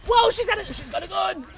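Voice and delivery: high, loud startled cry; shocked at the sight; surprised. Real, not acted. Surprised by enemy in game.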